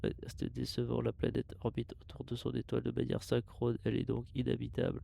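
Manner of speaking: steady mechanical log voice; robot voice. Acted. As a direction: read it like a ship's computer. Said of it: "je fais une voix de robot".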